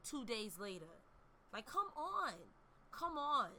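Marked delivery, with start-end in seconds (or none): 1.5-3.5 exasperated plea. Real, not acted. Fed up with repeated killings.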